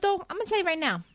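ordinary talk

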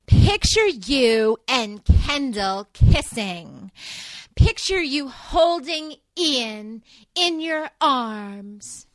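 very slow, hushed guided-imagery voice; soothing visualization coach. Retold or imitated. Mocking Greenlee coaching Zach to visualize, slow and soothing. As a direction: lead him through it slowly like a self-help tape. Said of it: "Greenlee makes him visualize".

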